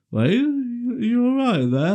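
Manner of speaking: hammed-up high voice for dad; high-pitched calling. Dad checking on son in the toilet, high call. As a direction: call it through a door, very high.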